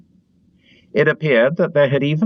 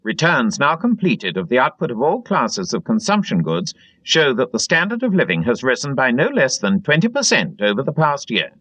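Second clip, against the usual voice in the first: higher, bright-pitched triumphant state announcement; telescreen broadcast; 7 semitones higher than usual. Acted. Telescreen blaring statistics to the canteen, triumphant announcer read. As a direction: proclaim the good news like official radio.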